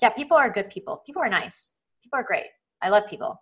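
a bright, rote "People are good" said on the surface only; hollow recited affirmation. Retold or imitated. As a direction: rattle off nice words you don't really feel. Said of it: "it's another thing for you to be like".

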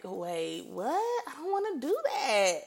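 a Bible reader balking at a hard verse; startled reader. Pretend. Bible reader caught off guard, shocked. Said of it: "you be like".

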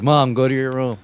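mock son bossing his mom; telling mom off. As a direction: send mom off to her room. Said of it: "It's like, it's like".

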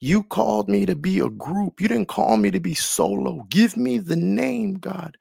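pleading altar prayer. Retold or imitated. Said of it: "on the altar crying".

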